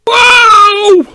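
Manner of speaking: a high, loud yelp of delight; excited wow. Real, not acted. Streamer reacting to the song, with an excited high yelp. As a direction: blurt it out, thrilled by the track.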